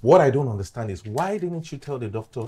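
exasperated challenge; angry retort. Acted. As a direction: throw the blame back heatedly. He argues back in quarrel.

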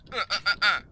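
four short grunts; grunting. Real, not acted. Player trying to break blocks, grunting.

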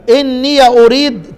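إني أريد recited slowly as إنيَ أريد; Quranic recitation. Shown as a demonstration. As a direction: chant it slowly, open the ya. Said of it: "زي ما أنا قرأت كده". (تلاوة إني أريد بفتح الياء)

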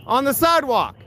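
beg, then snap at the cop; calm turning angry. Real, not acted. Officer pushes him out, he protests.

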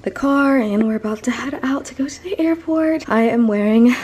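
breathless after lifting luggage; out of breath, talking between breaths. Real, not acted. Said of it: "I'm out of breath".

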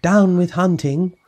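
high hooted dinosaur chant; hooting. A narrator's reading. Drip singing along with his own words, high hooting. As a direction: hoot it high like a little protester. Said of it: "For he hooted".

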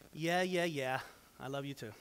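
low, soft, dismissive yeah yeah; dismissive wife. Retold or imitated. Wife answering husband, a hint of a dismissive brush-off. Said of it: "Donna looks at you and goes".

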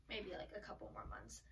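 a soft, unvoiced whispered aside; whispering. Real, not acted. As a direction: whisper it like a side note.

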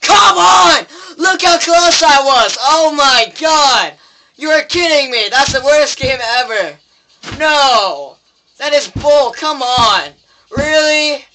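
loud, high yelling, real outrage; angry rant. Real, not acted. Gamer raging at the worst game ever after losing, angry yelling. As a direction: shout every line at the game. Just lost the round, ranting.

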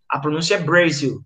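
"Brasil" dito em inglês, /bɾeziw/; Brazil in English. Shown as a demonstration. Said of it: "quando vocês virem Brasil escrito com Z". (Brasil com pronúncia inglesa)

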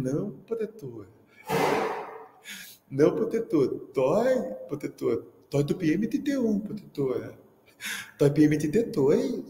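put-on a light childish lisp; lisping little girl. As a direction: mimic a kid with a tongue-tie. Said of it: "Sofia tinha língua presa". (imitando de leve a menina de língua presa chamando o professor)

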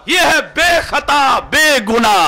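slow, high, loud preaching cry, each word drawn out; fervent shout. Real, not acted. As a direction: proclaim it to the crowd at full force. Preacher proclaims innocence, repeated.

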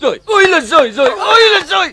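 high, loud keening wail; wailing lament. Acted. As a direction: cry it out to the whole village. Woman wails in despair.

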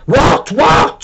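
high, sharp startled what; shouted. A narrator's reading. Bob startled when Zelen pulls him down, sharp. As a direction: snap it out in surprise. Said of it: "shouted Bob".

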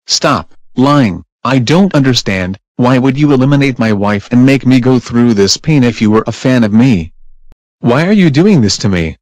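loud furious yelling; angry shouting. Acted. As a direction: shout it out in rage. Husband shouting about eliminated wife.

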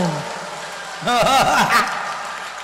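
falling laugh; real laughter. Real, not acted. Laughter alone. (tiếng cười)

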